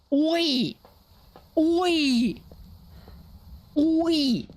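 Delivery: high calls of oi; calling out. Real, not acted. Player calls out to the ghost, high and sharp. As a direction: call out sharply into the room.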